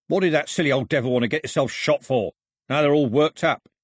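rough gunman's annoyed complaint; Foxlip, irritated. Acted. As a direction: grumble about the trouble he caused. Voices Foxlip grumbling about the priest.

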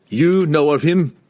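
loud forceful question; demanding. A narrator's reading. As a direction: demand it loudly. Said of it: "Wulfgar demanded".

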